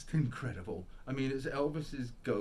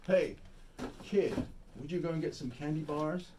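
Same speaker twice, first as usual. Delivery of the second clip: calling out; 5 semitones higher, 4 dB louder than usual. Retold or imitated. Retold studio man calls out.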